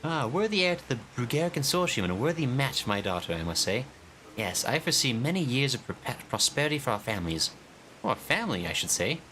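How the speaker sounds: high, pleased pompous noble; fawning father. Acted. Father praising the heir as son-in-law, fawning. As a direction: gush over the match.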